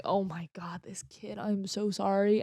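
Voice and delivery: hushed whisper of sorry; whispered apology. Retold or imitated. Apologizing again to the flinching dog, whisper. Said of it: "and I'm like".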